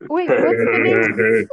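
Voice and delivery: sudden low startled question; surprised. Real, not acted. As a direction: blurt it out in alarm.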